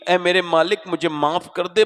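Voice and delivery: loud, pleading cry to God; a touch of a weeping woman, preached out loud; tearful plea. Retold or imitated. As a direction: beg for forgiveness in a preached wail. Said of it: "رو کے بولی".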